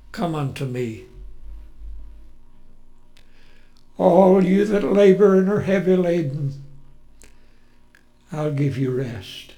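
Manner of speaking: gentle inviting. Shown as a demonstration. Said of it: "How do you think the voice of Jesus sounded".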